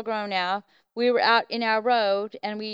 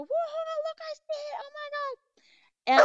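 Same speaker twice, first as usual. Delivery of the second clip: far higher, breathless amazed "Whoa"; awestruck exclamation. Retold or imitated. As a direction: cry out in wonder at what you finally see. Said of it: "you wanna go out in the road and go".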